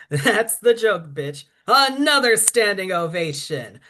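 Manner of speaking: theatrical drag queen monologue, punchy emphasis; sassy poem performance. Acted. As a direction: perform it like a diva addressing her audience.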